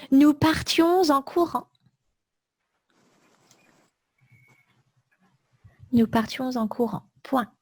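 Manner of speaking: words spaced out, punctuation spoken aloud; slow dictation. Shown as a demonstration. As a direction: dictate slowly, one chunk at a time. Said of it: "Je répète tout le texte".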